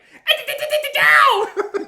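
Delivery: loud, high staccato shout of nonsense syllables; exaggerated high-pitched machine-gun yelp; mimicked stuttering outburst. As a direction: rattle off a stutter into a big high yell. Mimics a noise after "he's like.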